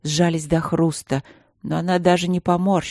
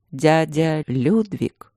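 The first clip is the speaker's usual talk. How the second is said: weary astonishment; much slower than usual. Acted. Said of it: "столько усталого изумления".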